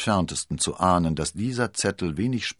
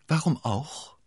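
higher-pitched probing question; lurking, probing; 9 semitones higher, slower than usual. A narrator's reading. Milady sounds out the unsuspecting abbess, lurking. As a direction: fish for information, as if casually. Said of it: "fragte Milady lauernd".

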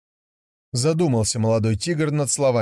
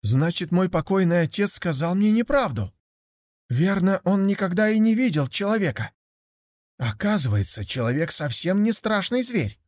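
put-on high, eager young tiger voice; a curious cub wondering aloud; higher, childlike young tiger full of wonder; naive young tiger; 7 semitones higher than usual.

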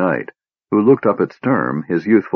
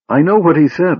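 impatient; 10 semitones higher, 4 dB louder than usual. Acted. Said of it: "Laurana replied impatiently".

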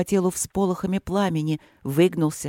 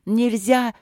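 higher desperate rising cry; 5 semitones higher than usual. Acted. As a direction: cry out in despair. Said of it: "отчаянно закричала Василина".

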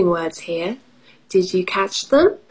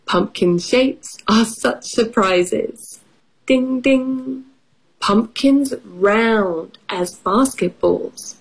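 slow rhyming picture book read; reading to children; slower than usual. Acted. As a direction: read the rhyme to little kids. Reads picture book aloud.

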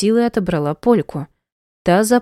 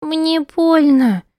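put-on high, slow little girl's sob; child sobbing; 10 semitones higher, 4 dB louder, much slower than usual. Little girl crying to her mother, sobbing. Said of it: "всхлипнула Полина".

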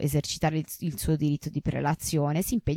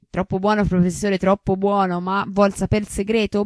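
flattered; 4 semitones higher, 4 dB louder than usual. Acted. Maestro lusingato, tono mondano.

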